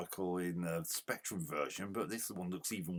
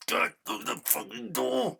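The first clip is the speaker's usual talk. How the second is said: much higher and louder, furious; angry shout; 5 dB louder than usual. Real, not acted. Gamer shouting at the character that won't use the door, angry. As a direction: yell the curse at the screen.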